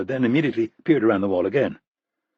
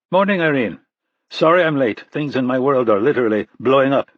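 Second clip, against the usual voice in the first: a hint of a rushed, harried man arriving late; lightly voiced agent bursting in, a bit louder; harried Russian-born officer; 3 semitones higher, 5 dB louder than usual.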